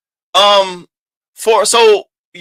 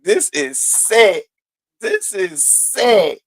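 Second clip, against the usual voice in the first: slow, drawn-out impression of Lemon; lightly voiced Lemon, slow and deliberate; imitating Lemon; much slower than usual. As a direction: stretch each word like Lemon would. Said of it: "I can hear him now".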